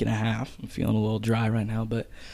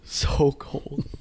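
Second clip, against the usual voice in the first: breathy whisper with a laugh; 4 semitones higher than usual. Real, not acted.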